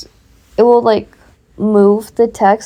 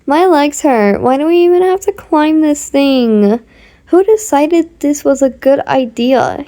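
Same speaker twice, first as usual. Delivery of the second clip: put-on whiny complaining boy; 4 semitones higher than usual. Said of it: "was complaining".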